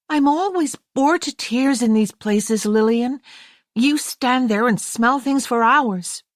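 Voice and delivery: put-on high, bored, teasing girl's voice; young American girl. A narrator's reading. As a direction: play the restless younger sister who whines.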